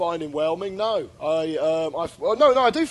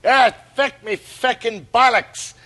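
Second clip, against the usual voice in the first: mock Irish yelp, slow; slow hammed-up Irish cry of pain; Irish accent; 5 semitones higher, 5 dB louder than usual. Dowling hurt on the bollard, mock Irish yelp. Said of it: "like that".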